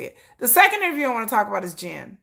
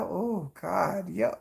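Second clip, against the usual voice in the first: swooning sigh; 2 semitones lower, 8 dB quieter, much slower than usual. Retold or imitated. Swooning over his accent.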